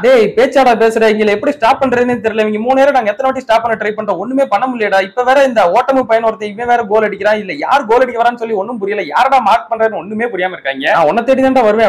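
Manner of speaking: lightly played frustration, pitch held up; mild exasperated outburst. Rival captain unable to stop the attackers, mildly exasperated rant.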